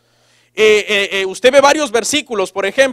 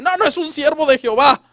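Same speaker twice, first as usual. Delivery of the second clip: higher-pitched mock boasting parent; defensive parent; 5 semitones higher than usual. Parent of a rebellious child answers, in insistent denial. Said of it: "tienen unos hijos bien rebeldes y dicen".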